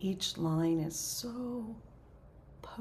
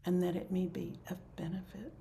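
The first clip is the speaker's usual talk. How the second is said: soft, phrase-by-phrase blessing; closing dedication prayer; 5 dB quieter than usual. Real, not acted. Leader dedicates any merit to all beings, soft prayer. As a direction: offer it quietly, pausing between phrases.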